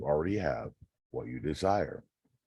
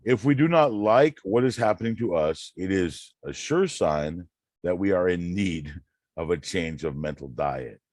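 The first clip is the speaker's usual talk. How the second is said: reading aloud; 4 dB louder than usual. Acted. Reads Neville passage aloud.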